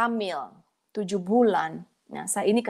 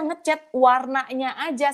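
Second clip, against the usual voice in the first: ordinary delivery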